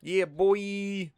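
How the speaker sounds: loud, high-pitched hype cheer; excited cheer. Real, not acted. Gamer hyping a lucky find, excited cheer.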